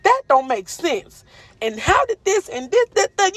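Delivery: high, baffled mock questioning. Speaker to viewers mimicking a doubter's confusion, high and baffled.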